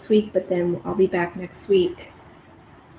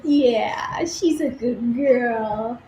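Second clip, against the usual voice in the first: whispered praise; 2 semitones higher, much slower than usual. Real, not acted. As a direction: hush and praise her tenderly. Praising dog softly.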